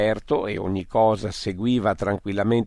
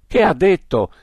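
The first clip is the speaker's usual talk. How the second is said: much higher, louder repeated question; alarmed shout; 9 semitones higher, 7 dB louder than usual. Acted. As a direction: shout it again in disbelief. Shock that the Wub spoke. (urlato, molto più alto, incredulo)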